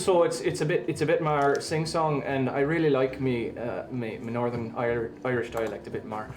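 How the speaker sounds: a light Dublin Irish lilt, a bit sing-song; Irish dialect. Acted. Streamer gives a viewer a light Dublin Irish accent. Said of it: "this Irish dialect is for you".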